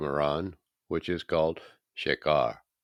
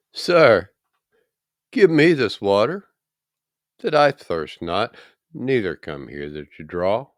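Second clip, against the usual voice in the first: higher, louder, eager Samaritan woman; eager woman at the well; 4 semitones higher, 8 dB louder than usual. Acted. Woman at the well begging the stranger, eager and higher. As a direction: reach up in pitch, asking eagerly for the water. Woman voiced in scripture reading.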